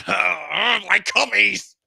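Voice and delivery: high loud squeal; mock Joe. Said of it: "Joe's gonna be like".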